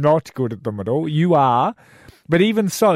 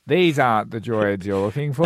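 lightly voiced old Jedi; understated impression of an aged master; old Obi-Wan; 3 semitones lower than usual. Co-host trying another one, mild old Jedi voice. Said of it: "it's old Obi-Wan".

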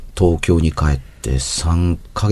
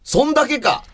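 much higher, teasing disbelief; mock disbelief. Real, not acted. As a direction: tease her for the tiny story. Joking dismay at short story.

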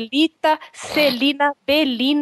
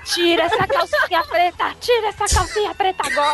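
higher, commanding cop order; tough cop voice; 6 semitones higher than usual. Retold or imitated. Playing Nascimento giving orders.

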